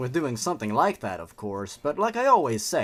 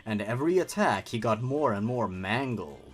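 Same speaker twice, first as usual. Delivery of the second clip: horror story narration. A narrator's reading. Reads horror story aloud.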